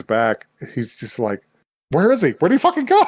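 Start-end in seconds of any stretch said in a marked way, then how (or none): 1.9-3.0 loud, high, hammed-up yelling; mock outraged shout. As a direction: bellow it like a baffled villain. Retold outburst, he vanished.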